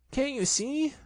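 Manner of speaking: high, indignant shout. A narrator's reading. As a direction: Piglet yelling at Kanga. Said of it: "shouted Piglet".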